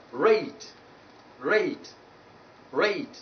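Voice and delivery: "rate" with a gliding ay; diphthong ay. Shown as a demonstration. Teacher modelling the glide in rate, diphthong ay. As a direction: say "rate" with the vowel gliding from e towards i. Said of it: "you pronounce them as A".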